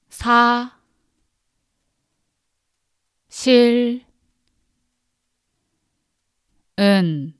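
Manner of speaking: 사, 실, 은 each syllable said alone with long pauses. Shown as a demonstration. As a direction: split 사실은 into single syllables for repeating. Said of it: "break it into syllables so that you can repeat after me".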